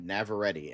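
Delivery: "Navarrete" ending like "ready"; her own pronunciation. Retold or imitated. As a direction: say "Navarrete" with the last syllable as "-tee". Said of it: "she said her own name".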